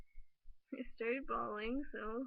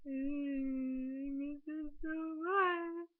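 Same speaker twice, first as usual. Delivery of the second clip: higher, louder voice breaking toward tears; close to tears; 4 semitones higher, 4 dB louder, much slower than usual. Real, not acted. Overwhelmed by the breakup, voice breaking near tears. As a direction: let the words crack as tears rise. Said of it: "I'm gonna cry".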